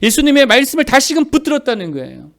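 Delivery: usual speaking voice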